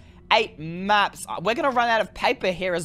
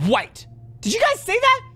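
surprised; 13 semitones higher, 3 dB louder than usual. Real, not acted. Empty map suddenly fills.

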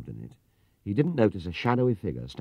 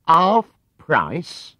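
much higher and louder, disbelieving; incredulous echo; 10 semitones higher, 11 dB louder than usual. Acted. Clerk doubting Paddington's claim, incredulous. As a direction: throw the words back in disbelief. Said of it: "echoed the man".

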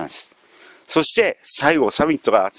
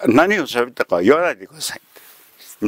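ordinary talk, nothing marked

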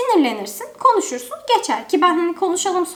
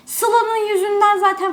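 imitating Selin; 5 semitones higher, slower than usual. Selin blaming Sıla.

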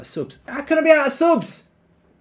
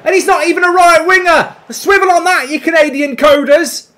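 excited; 5 dB louder than usual. Real, not acted. Praising the goal, still loud.

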